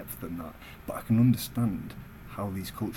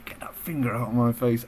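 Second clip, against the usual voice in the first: louder, firm retort; retold firm warning; 3 semitones higher, 6 dB louder than usual. Retelling his warning to the passenger, louder and firm. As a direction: push back hard at the finger in his face. Confronting the man on coach.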